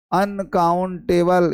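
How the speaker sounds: अनकाउंटेबल drawn out syllable by syllable; slow careful word. Shown as a demonstration. Teacher drilling अनकाउंटेबल for the class, slow and deliberate. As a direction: lay out अनकाउंटेबल slowly so it sticks. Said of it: "क्या है ये?".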